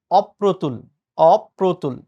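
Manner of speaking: "অপ্রতুল" repeated carefully, op-pro-tul; correct pronunciation. Shown as a demonstration. Teacher drilling students, "অপ্রতুল" in deliberate beats as op-pro-tul. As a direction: stress the opening aw of "অপ্রতুল". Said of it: "ঠিক উচ্চারণ হচ্ছে".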